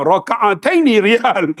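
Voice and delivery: slow, deliberate, sure of himself; mock confidence, slow; confident. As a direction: spell out Raka'ataini riyal slowly as if it is right. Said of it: "Dengan confidentnya".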